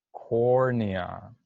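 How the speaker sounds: cornea stretched out and clearly sounded; pronunciation model. Shown as a demonstration. Teacher gives cornea for the class to repeat, pronunciation model. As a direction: say cornea carefully for repetition. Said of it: "Now you repeat".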